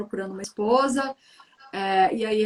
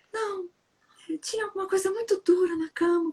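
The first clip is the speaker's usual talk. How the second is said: put-on a sweet, well-behaved girl gently reporting a hard lump; sweet good girl; 8 semitones higher than usual. Shown as a demonstration. Sweet innocent princess reading to show one way to read the tale. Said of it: "como se ela fosse uma menina boa".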